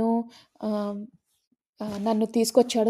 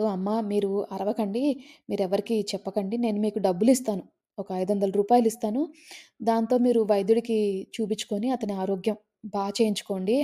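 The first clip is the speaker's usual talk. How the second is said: hushed plea to the priest's wife; frightened pleading; 3 dB quieter than usual. Retold or imitated. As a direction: beg her to keep it quiet. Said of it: "ఇతను శర్మగారు బెదిరిపోతాడు".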